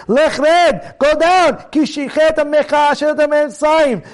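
urgent, emphatic scripture quote; strong, stern rebuke. Acted. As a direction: order him down sternly. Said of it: "He's strong".

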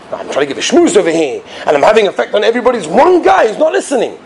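mildly indignant grumble, rising toward the end; upset maggid. Acted. Maggid grumbling about one inattentive listener, upset. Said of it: "So Maggie got very upset".

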